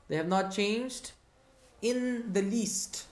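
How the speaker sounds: not and in the least drawn out slowly; slow emphatic phrase. Shown as a demonstration. Teacher stressing the translation to students, slow and emphatic. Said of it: "Look at what the tra".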